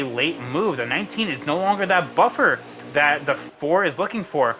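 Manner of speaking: fast, lively play-by-play; race commentary. Acted. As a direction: call the race as it happens.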